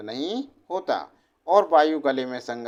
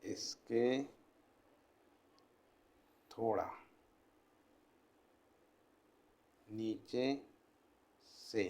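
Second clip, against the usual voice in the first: quiet, word-by-word dictation with long pauses; 7 semitones lower, 13 dB quieter than usual. Acted.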